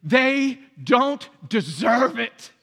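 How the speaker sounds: slow, stubborn mock refusal; a touch of bitter indignation; slow grudging objection; resentful retort. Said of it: "what they hear is".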